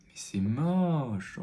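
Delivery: slow, drawn-out dismay; dismayed drawl. Real, not acted. Reacting to his own ugly makeup, drawn out. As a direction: stretch it out in disgust.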